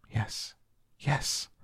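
breathy near-whisper yes; almost whispered. A narrator's reading. Boy answering Mary's solemn question, near whisper. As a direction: hush it, solemnly. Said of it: "he almost whispered his answer".

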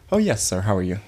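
mock polite voice for white people; lightly hammed-up politeness; code-switched polite voice. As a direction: switch into your politest customer voice. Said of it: "it's like".

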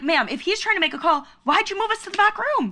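rising exasperated laughing protest; calm turning angry. Retold or imitated. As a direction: start polite then blow up. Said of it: "we're like".

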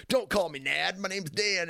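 high, mock-angry protest; angry kid protest. A schoolboy yelling at the kids who teased him, high and mock-angry. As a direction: snap it back like a pissed-off kid. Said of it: "I would get pissed. I was like".

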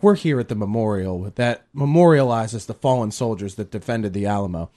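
mock earnest host delivery; solemn presenter sliding into upbeat pitch. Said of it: "deliver, like, this compelling line".

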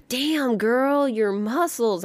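high playful catcall; flirty compliment. Retold or imitated. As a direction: tease like a flirty friend. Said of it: "has been like".

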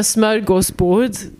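smörgåsbord drawn out the Swedish way; Swedish pronunciation. Shown as a demonstration. Swedish host showing how Swedes say it, Swedish pronunciation of smörgåsbord. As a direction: say smörgåsbord slowly with Swedish vowels. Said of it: "That's how we pronounce it in Swedish".

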